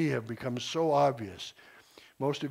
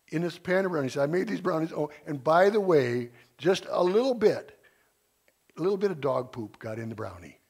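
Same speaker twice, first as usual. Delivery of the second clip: retelling Mike; 3 semitones higher, 4 dB louder than usual. Retold or imitated. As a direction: ham up an innocent host offering treats. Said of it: "and he's".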